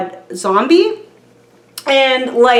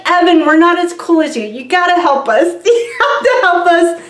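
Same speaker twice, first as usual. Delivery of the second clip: mock pleading; 5 semitones higher than usual. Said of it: "We were like".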